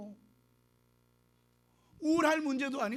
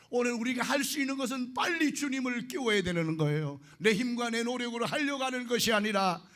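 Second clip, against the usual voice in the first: earnest preaching to the flock. Acted. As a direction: exhort the congregation with fervour. Preaches to the congregation. (회중에게 열정적으로 설교)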